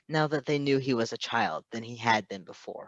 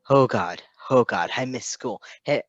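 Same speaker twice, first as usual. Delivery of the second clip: rising panicked babble, louder and higher toward the end; panicked teen; 4 semitones higher, 8 dB louder than usual. Acted. Scared boy panicking over his foster dad. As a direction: blurt it out in a rush of panic.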